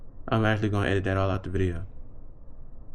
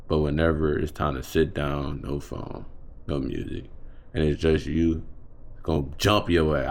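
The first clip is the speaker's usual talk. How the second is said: sexy man voice; 6 semitones lower than usual. Pretend. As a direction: drop into a low, seductive man voice. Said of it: "we in the sexy man voice mode".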